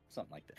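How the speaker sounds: high squeaky something like that; guinea pig voice. Shown as a demonstration. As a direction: squeak it like a small rodent. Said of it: "You sound like a guinea pig".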